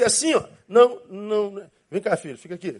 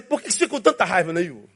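inner voice asking; faster than usual. Retold or imitated. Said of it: "uma vozinha".

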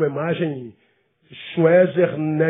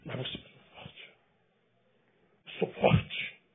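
soft, slow whisper of false strength; a mock whisper pretending to be strong; 6 semitones lower, 10 dB quieter, slower than usual. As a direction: breathe the words, hollow bravado. Mocking the pose of strength.

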